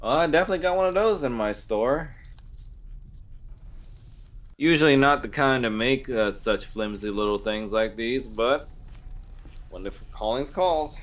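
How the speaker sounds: a proud blacksmith sizing up a customer; smith woman. Acted. GM voices the smith.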